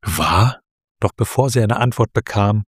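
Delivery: measured storytelling read with small character voices; story narration. A narrator's reading. Host reading a story chapter to her co-host, in a calm storytelling voice.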